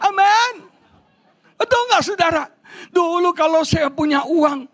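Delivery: high-pitched rally to the congregation; rousing preaching. Acted. Preacher airs married men's grievance to the congregation, rousing high preaching.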